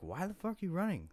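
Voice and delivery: high, loud mock yell; retold yell. Man chasing his girlfriend, yelling high and loud.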